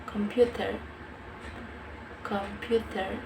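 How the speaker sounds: computer in an American accent with a final r. Shown as a demonstration. Learner shows how Americans pronounce the word, American accent. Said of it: "In American accent".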